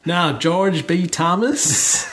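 put-on American accent. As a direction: say it like an American announcer. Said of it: "your, um, American accent".

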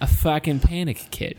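playful put-on Boston accent. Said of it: "the Boston accent that we can do so well".

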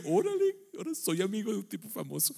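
Órale jumps way up in pitch, then trails off awed; amazed exclamation. Retold or imitated. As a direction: play your own starstruck surprise. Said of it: "y yo".

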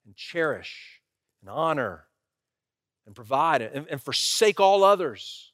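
slow, measured vow question with pauses; wedding officiant. Retold or imitated. Pastor asking a groom his wedding vows, officiant's measured delivery. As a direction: pose the vow phrase by phrase, solemnly. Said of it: "stood in front of a lot of grooms".

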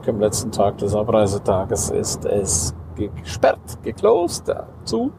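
lightly voiced fussy receptionist; imitated officious refusal; mock staff excuse. Spa staff refusing entry.

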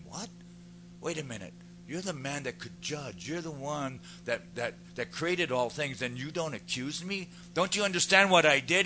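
rising, disbelieving questions, building to loud; incredulous. Acted. Accused woman to Jesus who won't accuse her, incredulous. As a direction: build from stunned to an astonished outburst. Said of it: "she's thinking".

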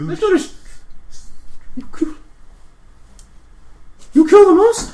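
high, loud incredulous orc; orc disbelief. Acted. GM's orc guard realizing the player slew the monster.

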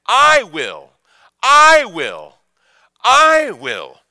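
each "I will" punched high and loud; preacher driving home "I will"; stress on I will. Shown as a demonstration. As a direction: hammer "I will" harder each time. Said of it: "Notice what he emphasizes".

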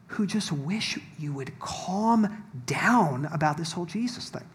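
normal talking voice

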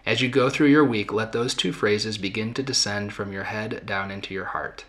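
measured read-aloud of a written practice. Acted. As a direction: read guidance out in deliberate, separated phrases. Reads the week's written practice aloud.

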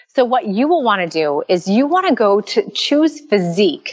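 talking in an echoing corridor. Real, not acted. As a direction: echo from a hallway. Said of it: "Sorry, I'm echoing".

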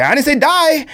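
high, laughing protest; laughing kid. Retold or imitated. Dad imitating his son's denial while laughing. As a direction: squeak it out through a laugh.

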